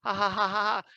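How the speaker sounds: lightly voiced cheerful kid; dad imitating his daughter's goodbye, lightly voiced kid; little girl's voice. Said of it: "And she's like".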